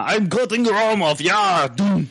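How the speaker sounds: mock action narration. Friend imagining audio of a film, mock action voice. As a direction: act out the fight for listeners. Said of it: "sitting there describing how".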